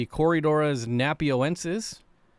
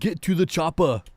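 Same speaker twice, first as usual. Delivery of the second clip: movie quote impression; 4 semitones higher, 4 dB louder than usual. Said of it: "very hard for me to do impersonations".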